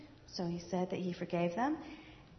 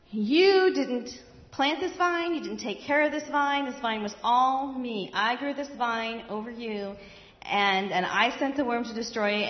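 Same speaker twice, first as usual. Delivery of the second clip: stern God; 3 semitones higher, 5 dB louder than usual. Acted. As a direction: rebuke him from above, firmly. God rebukes angry Jonah.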